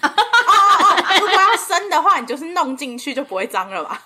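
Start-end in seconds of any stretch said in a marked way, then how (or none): 0.0-2.8 laughing. Real, not acted. Laughing at joke.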